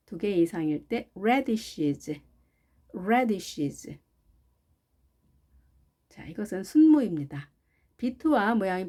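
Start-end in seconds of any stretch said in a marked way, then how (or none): 1.1-4.0 "radishes" with a clear "a" as in cat; slow model of "radishes", first vowel brought out; '애' 발음 살려서. Shown as a demonstration. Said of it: "에 발음 살려서 해주시고요". ("radishes"의 '애' 소리를 살려서)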